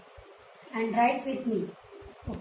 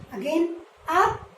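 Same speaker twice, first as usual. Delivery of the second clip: Up rising high then down dropping low; 5 dB louder, slower than usual. Shown as a demonstration. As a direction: voice climbs on Up and falls on down. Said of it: "Like this".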